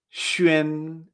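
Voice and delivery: XUAN said "shü-en", long and level; pronunciation with X. Shown as a demonstration. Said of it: "con X".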